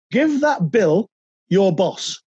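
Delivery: a lightly voiced boss, each word drawn out slowly; slow Cloughie quote. Manager telling player to give the bill to his boss, slow and deliberate. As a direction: hand down the order slowly, like a manager who won't explain.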